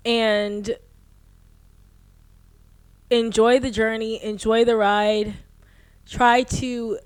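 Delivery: slow, sincere advice with long pauses; measured, earnest encouragement; heartfelt. Real, not acted. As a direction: speak tenderly to your younger self, choosing each phrase. Heartfelt advice to her younger self.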